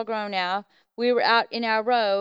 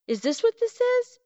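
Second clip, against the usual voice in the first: much higher, incredulous rising question; stunned question; 13 semitones higher than usual. Retold or imitated. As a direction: ask in shocked disbelief. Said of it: "I said".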